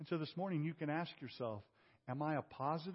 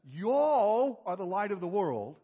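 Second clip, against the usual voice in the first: Southern y'all; 3 semitones higher, 9 dB louder, slower than usual. Pretend. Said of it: "he says".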